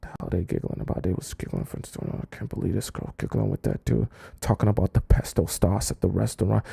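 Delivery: muttered jealous grumble, barely voiced; jealous muttering. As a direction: seethe to yourself in the car. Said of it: "He's driving in the car".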